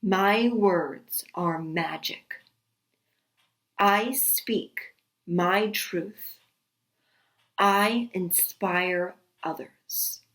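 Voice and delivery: very slow, measured affirmations with long pauses; spoken affirmations. Shown as a demonstration. Yoga guide giving affirmations to repeat, slow and deliberate. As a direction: recite each affirmation slowly, leaving space to repeat. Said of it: "repeat the following affirmations".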